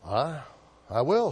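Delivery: a hint of surprise, halting; clergyman surprised. Clergyman answers the actor's challenge with mild surprise. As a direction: stammer out a startled yes. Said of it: "said the clergyman in surprise".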